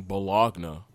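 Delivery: bologna as buh-LOG-nuh; phonetic, as spelled. Shown as a demonstration. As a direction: sound the hard G in bologna. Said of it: "saying it how it's spelled".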